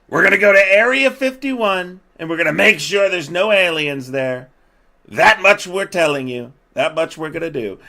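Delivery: high, loud mocking proclamation; mock declaration. Mocking officials who promise an inspection, mock declaration. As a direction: shout it like an absurd official pledge.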